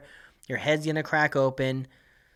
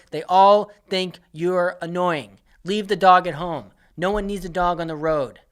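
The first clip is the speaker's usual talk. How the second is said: emphatic rant; 4 semitones higher, 7 dB louder than usual. Real, not acted. Ranting at audience.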